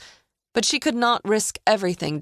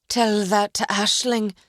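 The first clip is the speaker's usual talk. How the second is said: pained moan; 4 semitones higher than usual. A narrator's reading. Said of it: "delivering another low moan".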